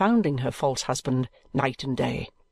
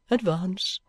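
whispered command; 4 semitones higher than usual. Acted. Chadband calls his wife forward.

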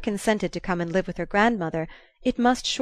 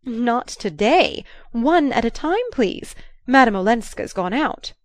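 slow, louder, higher playful teasing; arch; 4 semitones higher, 5 dB louder, slower than usual. Acted. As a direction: tease him archly like a coy old lady. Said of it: "pantomime of archness".

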